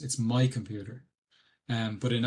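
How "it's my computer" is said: "my" stressed to contrast with yours. Shown as a demonstration. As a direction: put the weight on "my", not "computer". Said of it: "in English you emphasize the word".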